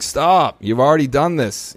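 mild, high-pitched mock exasperated yell; retold yelling. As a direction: plead like counselors telling him off, without really shouting. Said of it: "my sponsor's yelling at me".

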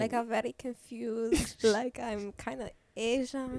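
slow, badly faked Asian-Indian accent; mock accent drifting from Spanish to Asian; confused Asian accent. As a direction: grope along in a muddled Asian accent. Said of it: "it's like Asian Indian".

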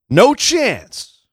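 high-pitched theme-music hook; mimicked entrance theme. Imitates McMahon's entrance music.

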